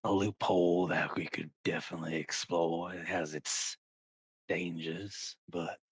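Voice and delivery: lightly voiced schemer, taking his time; sly sword character. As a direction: draw it out with deliberate pauses. Game master voices a character.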